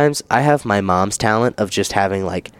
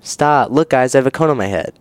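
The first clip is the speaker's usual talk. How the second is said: higher, whiny mock of the annoying guy; mock attention seeker; 4 semitones higher than usual. Mocking the attention-seeking guy in a whiny voice. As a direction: ham up the needy guy.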